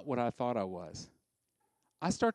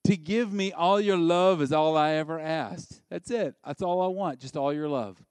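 louder, overwrought lover singing his devotion; pleading lover; 3 semitones higher, 6 dB louder than usual. Acted. Husband pleading with a wife who no longer loves him, hammed up. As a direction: ham up a desperate husband's vow. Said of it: "and he's telling her".

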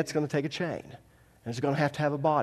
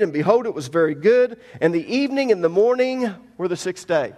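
emphatic, raised scripture reading; 3 semitones higher, 5 dB louder, faster than usual. Acted. Preacher reads God's command to the congregation, emphatic scripture reading. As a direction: read it out with ringing emphasis.

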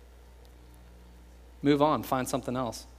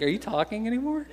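much higher, tiny squeaky voice; mouse voice; 9 semitones higher than usual. Retold or imitated. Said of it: "mouse voice".

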